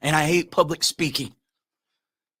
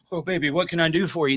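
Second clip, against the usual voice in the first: simpering pushover husband; 3 dB quieter, faster than usual. Retold or imitated. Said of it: "and then you see him".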